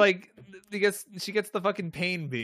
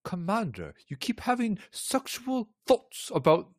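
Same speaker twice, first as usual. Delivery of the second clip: halting, slowed-down mock accent; Troy; 2 semitones higher than usual. Ship's counselor confronts her commander, lightly mimicked. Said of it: "let's hear your, your Troy".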